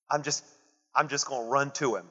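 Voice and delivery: hint of a headstrong believer, said quietly; mock eager believer. Preacher mimics modern Pentecostals in a storm, softly mocking. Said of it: "this is what modern Pentecostals would do".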